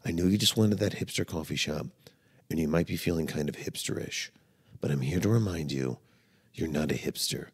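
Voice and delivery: low, soft, soothing message to self; self-help video message. Acted. Podcaster gently reminding himself who he is, soft reassurance. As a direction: talk yourself down gently, low and measured. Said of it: "if I was making one of myself".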